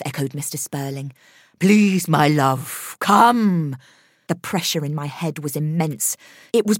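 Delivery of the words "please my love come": pleading summons. A narrator's reading. Begging spirit to come.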